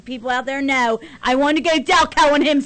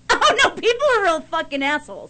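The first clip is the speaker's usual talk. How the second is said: laughing disbelief; 5 semitones higher than usual. Retold or imitated. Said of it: "you're like".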